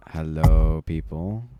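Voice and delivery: choppy voice cutting out over a bad connection; broken-up call audio; laggy video call. Real, not acted. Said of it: "Sorry for the lagging out".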